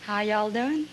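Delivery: put-on Texan greeting; Texan accent. Shown as a demonstration. Contestant asked about her accent tries Texan for the host, Texan accent. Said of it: "does that sound Texan?".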